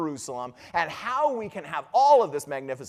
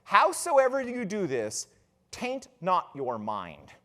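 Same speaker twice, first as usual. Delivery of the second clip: ghost's solemn warning; 5 semitones lower, 3 dB quieter, slower than usual. Acted. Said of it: "But then the ghost says".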